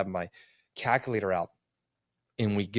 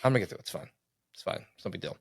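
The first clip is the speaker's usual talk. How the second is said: stubborn denial; faster than usual. Retold or imitated. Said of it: "I'm bullheaded".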